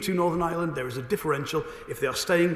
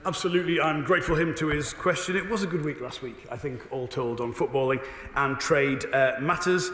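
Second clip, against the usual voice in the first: slightly hoarse, worn-out voice. Real, not acted. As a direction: speak through a tired, hoarse throat. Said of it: "my voice is a little hoarse".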